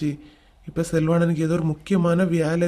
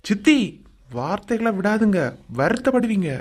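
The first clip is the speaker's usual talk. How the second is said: stern warning; 4 semitones higher than usual. Acted. Warning aunt during family quarrel.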